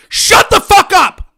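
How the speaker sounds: slow, loud barked order; furious shout. Real, not acted. Silencing left-wing critics, furious shout. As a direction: spit it out with contempt.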